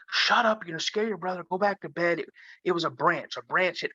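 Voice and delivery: a hint of a stern dad, shushing; hushing dad. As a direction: brush it off like a tired father. Dad hushing scared son.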